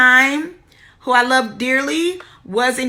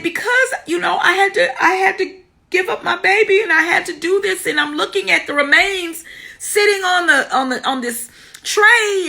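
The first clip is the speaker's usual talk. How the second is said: higher-pitched retelling of a pleading answer; retold distressed plea; 6 semitones higher than usual. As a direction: imitate your upset self explaining, voice lifted. Retold tearful answer to nurse.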